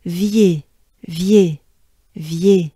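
"Vier" as one quick, punched syllable; "Vier" shortened and falling. Shown as a demonstration. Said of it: "shortened and faster, if you will".

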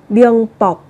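"Biếng bọc" with the B doubled at the join; a teacher models "Biếng bọc" after explaining the double consonant; pronunciation demo. Shown as a demonstration. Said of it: "đọc gấp đôi phụ âm lên".

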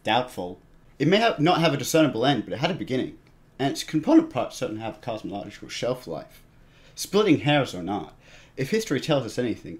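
measured, portentous monologue delivery; recited opening monologue. Shown as a demonstration. Reciting the dub's opening monologue to his friend, dramatic narration. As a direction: recite it like the show's grave narrator. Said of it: "I'll do the English one".

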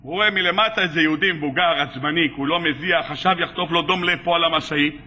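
low-pitched storyteller's aside; deep, understated narration; low narrative aside. A narrator's reading. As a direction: drop down low to set the scene. Aside describing the sweating angry customer.

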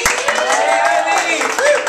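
high cheering woo; a bright hype-man whoop; excited whoop. Real, not acted. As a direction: whoop her up onto the stage. Cheering a poet to the stage.

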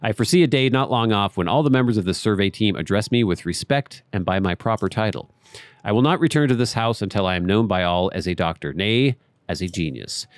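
measured, storybook read of the diary; reading a journal aloud. Acted. Gamer reading a character's journal to viewers, measured read. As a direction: read the old scholar's notes like a letter.

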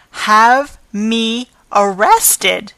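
put-on indignant old woman, slowed right down; outraged slow disbelief. Old concierge to manager threatening arrest, slow outraged scorn.

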